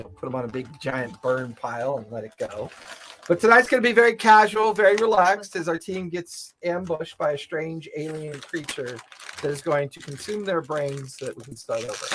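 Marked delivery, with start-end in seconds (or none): 3.3-12.1 dramatic announcement. Acted.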